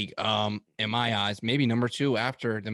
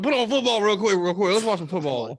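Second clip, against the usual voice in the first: urgent; 8 semitones higher, 5 dB louder than usual. Retold or imitated. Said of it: "I'm like".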